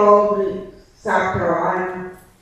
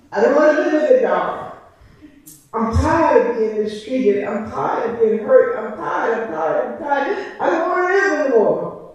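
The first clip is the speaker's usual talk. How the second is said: retold prayer, weariness building through repetition; weary despairing plea; 3 semitones higher than usual. Praying to God alone at night, despairing.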